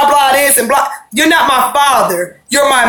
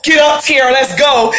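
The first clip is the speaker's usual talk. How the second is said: mock yell. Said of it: "he didn't do the whole".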